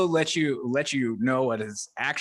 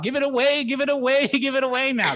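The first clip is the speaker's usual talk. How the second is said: mock scolding; 8 semitones higher, 3 dB louder than usual. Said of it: "and I was like".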